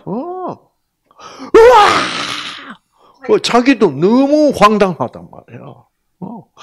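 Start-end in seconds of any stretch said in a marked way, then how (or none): 1.6-2.1 high, loud shocked wail; loud imitated child's wail. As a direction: wail like a stunned little girl. Daughter's shocked cry retold.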